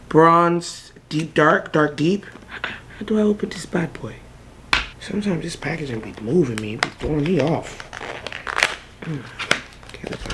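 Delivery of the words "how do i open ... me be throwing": fast whispered question; quick hushed grumble; whispered aside. Real, not acted. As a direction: mutter it to yourself in a whisper. Struggling with packaging, muttering.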